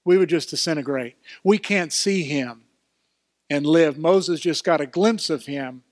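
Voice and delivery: loud, rising preacher voice; fervent pulpit delivery; full-force preaching. Real, not acted. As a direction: preach it, building in volume.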